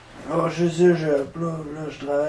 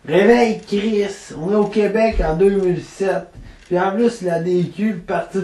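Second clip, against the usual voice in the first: scolding wake-up call; 4 semitones higher than usual. Acted. Friend scolds the drunk punk.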